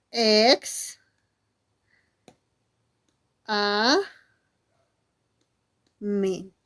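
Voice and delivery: each syllable alone, long gaps between; broken into syllables. Shown as a demonstration. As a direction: split "examen" as "ex-, a-, men", very slowly. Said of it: "hacen esto. Dicen".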